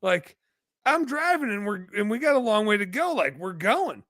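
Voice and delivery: high-pitched retold disbelief; frantic son arguing, re-enacted; incredulous protest. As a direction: argue back in mock exasperation, voice way up. Retold argument with injured dad.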